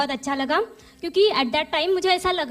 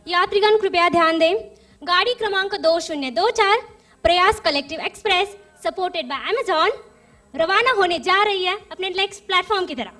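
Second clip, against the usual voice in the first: railway announcer; 3 semitones higher, 4 dB louder than usual. Pretend. Mock train station announcement.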